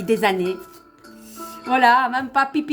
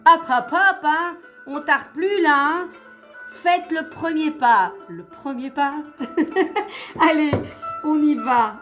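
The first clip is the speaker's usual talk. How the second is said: high, eager coaxing; excited urging; 6 semitones higher than usual. Real, not acted. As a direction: hurry the cards along, eagerly. Urging the cards to jump out.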